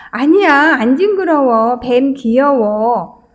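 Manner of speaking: lightly voiced protesting child, last words drawn out; whining small child. Four-year-old arguing with mom over a snake, lightly imitated whine. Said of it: "징징대면서 막 우는 거예요".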